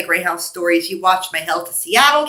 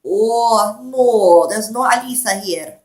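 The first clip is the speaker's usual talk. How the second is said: lightly put-on Russian accent; slower than usual. Shown as a demonstration. Fending off unwanted callers by pretending, in a Russian accent. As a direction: try a slow Russian accent. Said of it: "Let's try the Russian accent".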